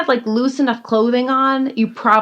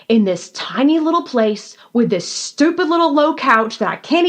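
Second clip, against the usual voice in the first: Southern diva rant. Retold or imitated. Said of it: "my inner Southern diva comes out".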